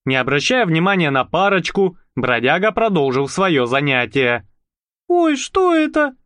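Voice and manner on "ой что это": put-on high, startled girl's cry; frightened. Marusya pointing at the stained rag, frightened. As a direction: squeal in alarm. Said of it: "Маруся испуганно ткнула пальцем".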